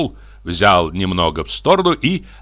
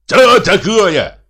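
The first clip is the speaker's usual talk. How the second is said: higher, drawn-out mocking shout; shouted retort; 11 semitones higher, 6 dB louder, much slower than usual. A narrator's reading. Scandalous brother echoing the question, shouted retort. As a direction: throw the question back, loud and very high. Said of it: "закричал Михей Егорыч".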